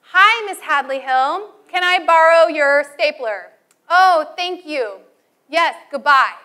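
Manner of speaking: demo phone call. Shown as a demonstration. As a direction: model a proper phone request. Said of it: "This is how you make a phone call".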